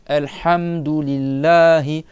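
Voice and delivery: slow loud "Alhamdulillahi" with throaty ha; slow Quranic Arabic; Arabic recitation. Shown as a demonstration. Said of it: "c'est le milieu de la gorge".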